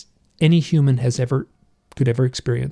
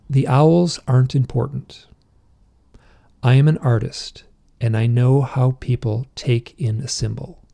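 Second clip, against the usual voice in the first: recited trance pronouncement. Retold or imitated. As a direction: recite it deliberately, each phrase standing alone. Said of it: "I'll just do the whole thing".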